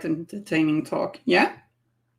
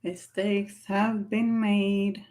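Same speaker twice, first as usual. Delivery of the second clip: mock solemn; 3 semitones higher, 4 dB quieter, much slower than usual. Repeats phrase slowly for effect.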